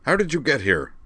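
high, startled demand. A narrator's reading. Captain confronts the intruders on the bridge, demanding. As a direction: demand it with pitch jumping up. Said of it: "Dorlac demanded".

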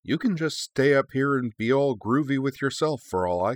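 high-pitched, huffy brush-off; dismissive jibe. Acted. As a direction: toss it off scornfully while leaving. Parting jibe as she flies off.

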